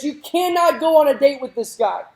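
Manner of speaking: firm no from a worried dad; stern father forbidding. Retold or imitated. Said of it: "the father then looks at his daughter and says".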